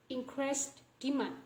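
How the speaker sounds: "increased demand" ending on N; dropped final D. Shown as a demonstration. Teacher showing how we can pronounce it, final D dropped from "demand". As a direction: stop "demand" on the N, no D. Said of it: "So we can pronounce as".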